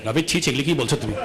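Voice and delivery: a shocked elder clicking her tongue; ছি ছি, দ্রুত নরম ধমক; scandalized relative. Retold or imitated.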